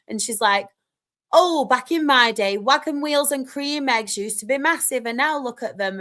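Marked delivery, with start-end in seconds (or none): 1.3-6.0 mock a reminiscing mum; old woman impression. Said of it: "gonna do an old woman impression of you".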